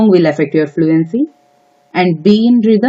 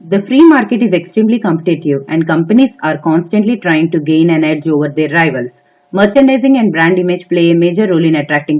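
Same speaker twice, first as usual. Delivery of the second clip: steady, fluent read-aloud of an exam passage; exam read-aloud demo. Shown as a demonstration. For test-takers, a model exam reading, steady and fluent. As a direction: read it straight through, clear and even. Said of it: "I'm gonna show you how I will read it in the exam".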